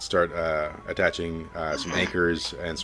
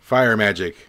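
Hawkins calls for mages; 6 dB louder than usual. Acted. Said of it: "He says, uh".

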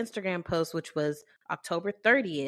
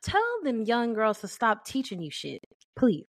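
lightly voiced higher mom; a hint of a puzzled mother, pitched up; imitating mom; 6 semitones higher than usual. Mom texting about young coworkers, lightly voiced higher. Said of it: "she just be texting me".

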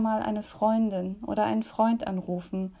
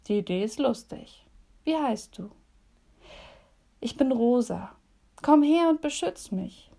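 put-on gentle storyteller voice for young listeners; cosy bedtime story read aloud; reading a story to children. A narrator's reading. Reads children's story in devotion.

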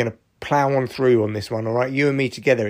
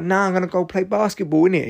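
lightly exaggerated teen voice, pitched up; mock teenage stepson; 6 semitones higher than usual. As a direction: mimic a defiant teenager, not his real voice. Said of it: "He doesn't speak like this".

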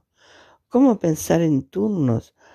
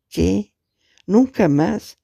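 higher, disbelieving rise on nunca; a caller repeating what she just heard, in shock; stunned question; 5 semitones higher, slower than usual. Acted. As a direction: echo the words back, not believing them.

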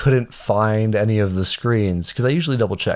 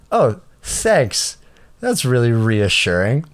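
dry mock gratitude, lightly higher; sarcastic thanks; 3 semitones higher, slower than usual. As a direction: thank her with obvious sarcasm. Sarcastic reply to airline agent.

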